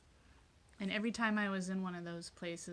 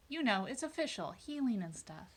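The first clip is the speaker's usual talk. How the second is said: playful, higher-pitched self-mockery; mock-official; 4 semitones higher, 4 dB louder than usual. Real, not acted. Meditation host joking about her vague candle explanation, mock-official. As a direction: send up your own vagueness.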